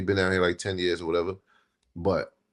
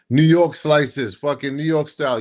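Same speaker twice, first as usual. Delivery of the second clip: mocking hype; 7 semitones higher, 5 dB louder than usual. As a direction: drag it out like a pizza ad. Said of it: "I say".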